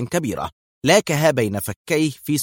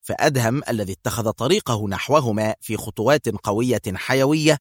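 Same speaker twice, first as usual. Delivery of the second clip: usual speaking voice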